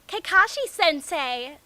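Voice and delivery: put-on high, loud, drawn-out girly call; excited girl greeting. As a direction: call out to your teacher all giddy. Ino greeting sensei loudly.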